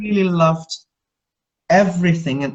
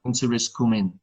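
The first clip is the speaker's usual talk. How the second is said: lower-pitched imitation of Ned Stark's Yorkshire accent; 5 semitones lower than usual. Quoting Ned Stark to show his accent, Yorkshire. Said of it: "That's Yorkshire".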